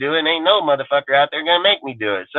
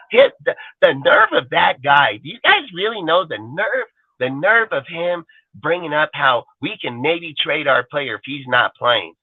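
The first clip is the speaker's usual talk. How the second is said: mock outrage. Mocking outraged fans.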